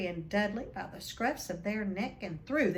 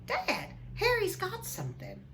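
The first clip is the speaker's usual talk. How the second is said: put-on much higher tattling boy's voice; whiny Dudley; 11 semitones higher than usual. Spoilt son telling on Harry to his father, high and whiny.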